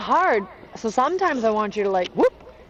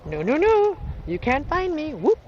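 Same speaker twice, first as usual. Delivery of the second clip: playful teasing; 5 semitones higher than usual. Retold or imitated. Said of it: "to be like".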